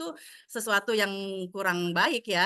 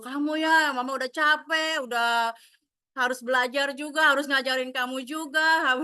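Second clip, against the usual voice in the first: raised, exasperated scolding; angry mother; 2 semitones higher than usual. Retold or imitated. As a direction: snap at the child like a tired mom. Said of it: "kita lepas kontrol gitu". (ibu yang kesal membentak anak)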